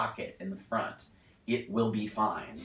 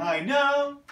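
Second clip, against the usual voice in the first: wrong version; 14 semitones higher, 4 dB louder than usual. Shown as a demonstration. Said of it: "instead of".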